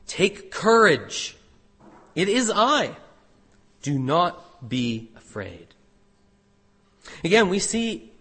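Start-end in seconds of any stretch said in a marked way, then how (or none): 0.1-5.7 slow, weighty and calm, each phrase set apart; slow reassuring words. Acted. Jesus calming his frightened disciples, slow and reassuring. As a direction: let each word land gently on frightened men. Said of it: "this very strong sentence".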